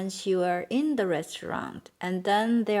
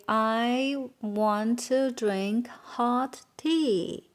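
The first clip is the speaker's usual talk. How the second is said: stretched, evenly spaced words; slow model sentence; much slower than usual. Shown as a demonstration. Teacher giving the sentence to translate, slowly and deliberately. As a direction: say it slowly for learners.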